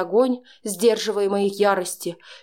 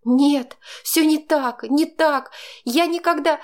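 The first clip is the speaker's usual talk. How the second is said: much higher and louder, pleading; desperate protest; 7 semitones higher, 3 dB louder than usual. A narrator's reading. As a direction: protest frantically. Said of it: "запротестовала я". (отчаянно, громко, высоко)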